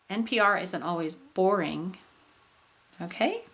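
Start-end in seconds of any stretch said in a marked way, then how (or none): 0.1-2.0 emphasize the "bor" of "boring", then fall; rise-fall on "boring"; high tone on BORING. Shown as a demonstration. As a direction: main stress on first syllable of "boring". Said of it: "and bore and boring".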